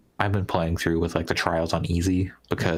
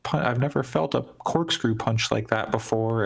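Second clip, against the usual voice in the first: higher-pitched voice for an acted quote; punched rabbit character; 5 semitones higher than usual. Acting out the abused rabbit robot for friends, in a higher character voice. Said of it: "And she's like".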